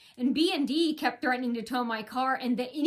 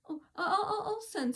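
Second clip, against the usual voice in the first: softer, laughing, flustered; nervous laugh; 8 semitones higher, 5 dB quieter than usual. Retold or imitated. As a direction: imitate him laughing nervously, caught out. Imitating the caught-out manager.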